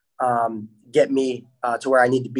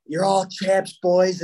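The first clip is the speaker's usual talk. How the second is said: higher-pitched mock cheer to teammates; retold cheer; 5 semitones higher, slower than usual. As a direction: imitate rallying the boys, pitched up.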